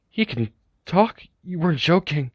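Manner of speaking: can't believe what they just heard; shocked. Acted. Tamaki and Shinso realizing the zombie talks, high shocked voice.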